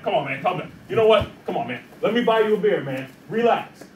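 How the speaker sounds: put-on calming a drunk. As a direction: talk him down gently, like a friend. Instructor soothes pretend drunk attacker.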